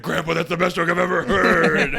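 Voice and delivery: high, loud, cracking up; laughing delight. Retold or imitated. Grandchild praises grandpa's best joke, laughing hard. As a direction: shout the praise through laughter.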